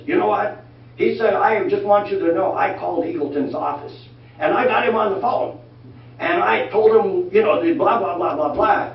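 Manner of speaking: hammed-up indignant caller; worked-up caller. Constituent calling back, worked up.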